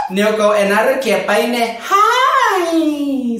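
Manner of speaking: high, slow, drawn-out put-on voice; sassy can't-hear-you. Shown as a demonstration. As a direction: stretch every word with drag sass. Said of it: "Así".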